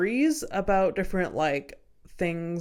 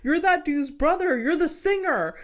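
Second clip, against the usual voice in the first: party guy quote; 8 semitones higher than usual. Retold or imitated. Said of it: "the other guy is like".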